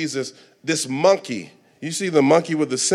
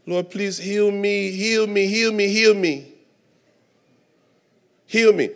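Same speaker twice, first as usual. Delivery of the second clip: slow, drawn-out begging prayer, pitched up; emotionalized plea; 5 semitones higher, slower than usual. Acted. Congregant begging God for healing, emotional imitation. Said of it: "We emotionalize our breakthrough".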